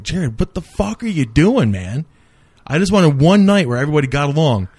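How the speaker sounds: high-pitched, exasperated pleading with a friend; retold exasperation. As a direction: re-enact telling off a friend, pitch jumping up. Acted quarrel, scolding his friend.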